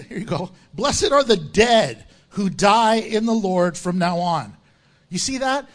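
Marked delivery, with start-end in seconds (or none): 0.7-4.6 slow, weighty Bible reading; scripture reading. Real, not acted. Preacher reads Revelation to the church, slow scripture reading. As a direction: proclaim the verse slowly.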